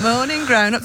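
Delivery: going for it loud. Shown as a demonstration. Teacher greeting grown-ups in the morning, loud call. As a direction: call it out to a room of parents. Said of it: "I'll go for it loud".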